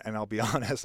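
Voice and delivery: usual speaking voice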